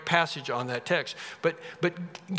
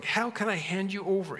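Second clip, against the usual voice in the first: mildly pained, pondering question; 3 semitones higher than usual. Acted. God wondering about handing Israel over, mild pondering. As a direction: ponder it with a touch of reluctance. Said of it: "you have this pondering".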